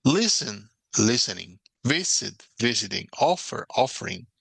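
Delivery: LISTEN, VISIT, OFFER punched on the first syllable, also with -ing; first-syllable stress. Shown as a demonstration. Teacher contrasting accent position for students, first syllable stressed. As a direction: stress LIS-tening, VIS-iting, OF-fering. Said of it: "hacer como un contraste".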